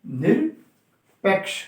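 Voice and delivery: very slow, stretched-out word for students to repeat; teacher slowly modelling the word for the class; drawn-out answer. Shown as a demonstration. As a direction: spell it out with the voice, syllable by syllable. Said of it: "क्या बोलोगे उसे?".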